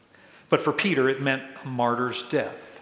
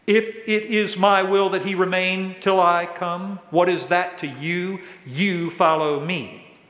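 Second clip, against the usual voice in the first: firm, raised-voice quoted rebuke; 4 semitones higher, 5 dB louder than usual. Retold or imitated. Jesus rebukes Peter for being distracted, firm and raised. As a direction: reprove him emphatically, slowing on the last words. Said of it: "So Jesus rebukes Peter".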